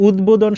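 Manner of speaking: উদ্বোধন with a clear b after the d; both দ and ব sounded. Shown as a demonstration. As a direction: say উদ্বোধন as "ud-bodhon". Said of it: "দয়ের উচ্চারণ হবে এবং কি হবে".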